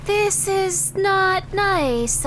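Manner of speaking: real shock at the monsters on screen; frightened outcry. Real, not acted. Scared by monsters in game.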